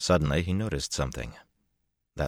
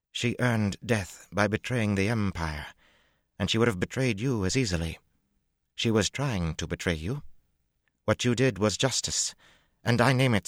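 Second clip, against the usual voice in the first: a hint of high, firm imperial voice; 6 semitones higher than usual. A narrator's reading. Tuon ruling on the traitor to Matt, firm and regal. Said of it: "but it remained firm".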